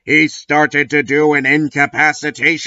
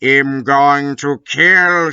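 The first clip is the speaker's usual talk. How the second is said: slow menacing Snape. Acted. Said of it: "shooted Snape".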